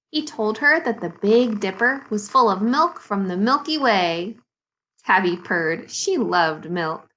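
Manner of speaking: measured read-aloud with lilting key words; children's story reading. Acted. Teacher reads Mister Putter and Tabby to second graders, storytelling.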